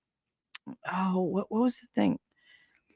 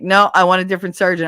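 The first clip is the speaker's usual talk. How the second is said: loud, quick demand; demanding patient; 6 dB louder, faster than usual. Retold or imitated. Patient demanding another surgeon, loud and fast. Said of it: "I was like".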